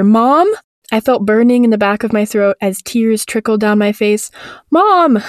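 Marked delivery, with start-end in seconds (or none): 0.0-0.5 high, questioning call for mother; louder cry. Acted. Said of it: "I cried it louder". 4.7-5.2 high-pitched cry for mother; mild scream. Acted. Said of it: "I was screaming now".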